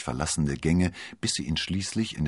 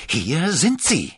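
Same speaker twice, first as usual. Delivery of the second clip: high, loud, drawn-out exclamation; hoarse triumphant call; 11 semitones higher, 7 dB louder, slower than usual. A narrator's reading. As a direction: call out slowly and loudly, straining hoarsely. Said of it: "rief er heiser".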